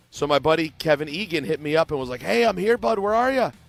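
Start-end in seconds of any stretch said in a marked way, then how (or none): 2.2-3.5 clumsy, high-pitched fake Irish accent. Quoting a buddy who said he had arrived, in a bad irish accent. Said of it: "That's my bad Irish accent".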